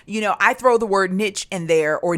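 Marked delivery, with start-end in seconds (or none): 1.1-1.5 "niche" said to rhyme with pitch; short vowel and final ch in "niche"; niche as "nitch". Shown as a demonstration. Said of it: "I pronounce it niche".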